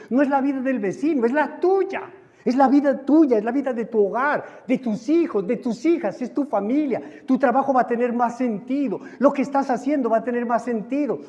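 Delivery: building, high-pitched pulpit exhortation; fervent sermon delivery in insistent parallel phrases; impassioned preaching. Acted. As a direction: drive each phrase home to the congregation, climbing in pitch. Preaches with rising force.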